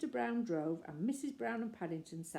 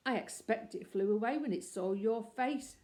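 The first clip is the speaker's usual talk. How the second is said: nasty; 3 semitones higher, 4 dB louder than usual. Acted. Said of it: "said the man nastily".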